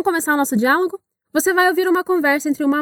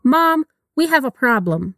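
slow, careful full sentence; slow model reading; slower than usual. Shown as a demonstration. Teacher modeling the whole line slowly. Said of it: "Vamos repetir?".

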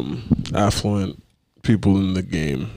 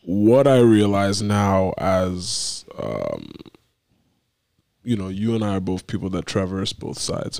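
hoarse voice; slower than usual. Real, not acted. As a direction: talk through a cold. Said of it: "forgive me for sounding like a sick child".

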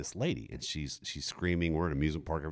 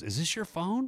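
voicing the helpful stranger up high; a lightly raised woman's voice; quoting the stranger who found his phone, in a high voice; high-pitched lady voice; 13 semitones higher than usual. Lady quoted.

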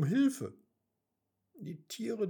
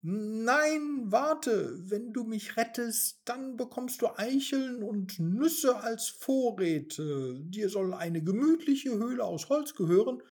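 higher, hurried bargaining princess; pleading princess; 6 semitones higher than usual. Acted. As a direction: beg the rat not to leave. Mimi bargains with the rat. (hastig bittende Prinzessin)

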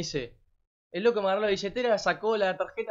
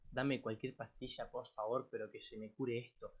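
weak plea; 6 semitones lower, 12 dB quieter than usual. Retold or imitated. Begging nurse for pills, hungover.

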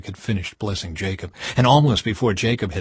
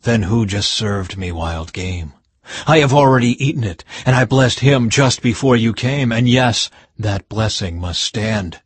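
shaken, louder outburst; stunned father, words tumbling out; mild shaken alarm; trembling; 5 dB louder than usual. Acted. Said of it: "Isaac began to tremble uncontrollably and said".

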